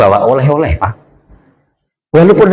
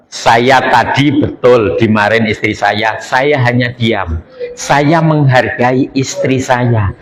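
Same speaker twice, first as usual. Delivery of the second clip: slow, measured, slightly lowered voice; calm reply; 4 semitones lower, slower than usual. Acted. Umar explains his silence to a troubled friend, calm and slow. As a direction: explain it patiently, taking your time.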